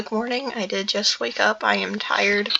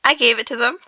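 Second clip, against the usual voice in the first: a loud, frightened little squeak; 3 semitones higher, 7 dB louder than usual. A narrator's reading. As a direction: blurt it out like a caught hobbit. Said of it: "squeaked Bilbo".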